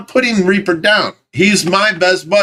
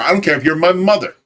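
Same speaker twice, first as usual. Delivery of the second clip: normal talking voice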